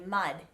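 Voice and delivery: mud ending on a soft, flattened-tongue D. Shown as a demonstration. Coach contrasts with hard D, soft D in mud. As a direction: let the final D of mud soften. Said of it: "If I use a soft D sound".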